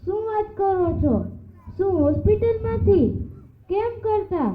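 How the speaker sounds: high, fast urgent questions into the phone; shocked on phone. Acted. Husband gets hospital news on the phone, shocked and rushed.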